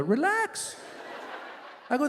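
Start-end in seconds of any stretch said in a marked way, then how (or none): 0.0-0.7 retold exasperation. Retold plea to upset friend.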